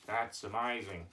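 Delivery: low-key put-on Aussie puppet; lightly voiced Australian character; Australian accent. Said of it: "you're going with the Australian accent".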